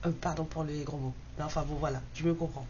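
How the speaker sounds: numb mouth, slightly slurred; numb from the dentist. Real, not acted. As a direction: talk through a numb anesthetized mouth. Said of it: "j'ai la bouche anesthésiée". (bouche anesthésiée après le dentiste)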